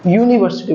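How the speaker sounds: यूनिवर्सिटी starting with a clear "yoo"; initial YOO sound. Shown as a demonstration. Teacher corrects students' article rule, यूनिवर्सिटी said with initial "yoo". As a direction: open यूनिवर्सिटी on a Y glide, "yoo". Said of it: "इसको यू से pronounce करते हैं".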